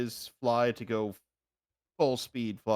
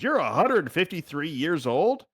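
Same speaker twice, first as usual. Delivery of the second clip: higher, slow questioning rise; mild mock disbelief; 5 semitones higher, 3 dB louder, slower than usual. Party questioning the kobold's age, in mild mock disbelief. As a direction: echo it back as an incredulous question. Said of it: "Everyone stops and says".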